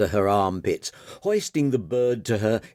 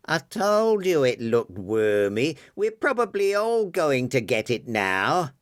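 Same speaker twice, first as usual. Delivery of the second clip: shrill man; 5 semitones higher than usual. Acted. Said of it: "said a shrill Larry".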